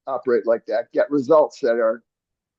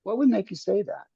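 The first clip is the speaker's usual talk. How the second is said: soft, higher, gentle asking; calm question; 7 semitones higher, 5 dB quieter than usual. Shown as a demonstration. Coach showing a calm reply to a rude remark, soft and higher. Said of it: "you could just calmly say".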